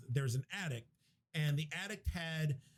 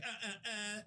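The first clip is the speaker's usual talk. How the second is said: short mock moans, pitched up and soft; imitated grunts; 5 semitones higher, 8 dB quieter than usual. Host acting out Sarah being whipped, mock grunts. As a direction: imitate someone grunting at each blow.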